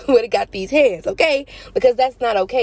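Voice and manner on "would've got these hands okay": sassy threat. Pretend. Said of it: "I would've said that".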